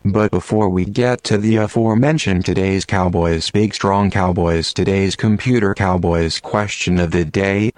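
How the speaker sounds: hammed-up robotic computer announcer; deadpan machine reading jokes to the radio listeners; cowboy computer voice. Computer bit telling jokes to callers, robotic deadpan. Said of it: "I'm the Big Strong Cowboy Computer".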